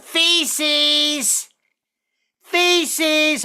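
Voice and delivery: high, drawn-out holler; mock yelling. Woman calling a plumber, high mock yell. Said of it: "did she just yell out".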